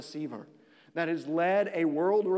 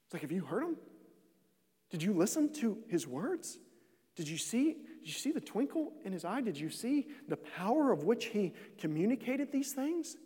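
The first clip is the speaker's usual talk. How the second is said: hushed awe; 3 semitones higher, 5 dB quieter than usual. Retold or imitated. Officers marvel at Jesus.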